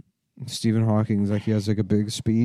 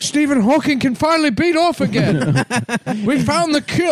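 high announcer voice; 13 semitones higher than usual. Retold or imitated. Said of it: "And they're like".

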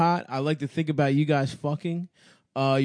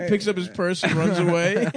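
ordinary talk, nothing marked

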